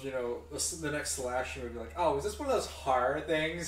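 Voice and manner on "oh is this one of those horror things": slow, lightly voiced wealthy New Yorker; a hint of an uptown New York lady; New Yorker woman. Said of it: "middle-aged New Yorker woman".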